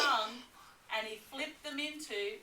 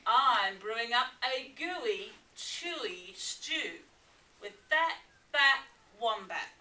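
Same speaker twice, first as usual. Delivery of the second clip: toothy grin; 5 dB louder than usual. Acted. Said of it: "replied Dingo with a toothy grin".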